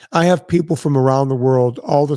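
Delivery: hoarse, fading voice; straining a tired, hoarse voice; losing voice. Real, not acted. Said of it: "Sorry, I'm losing my voice".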